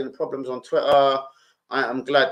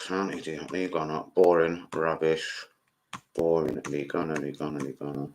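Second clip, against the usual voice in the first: mock reading voice; 11 semitones lower, 10 dB quieter than usual. Let me read them again.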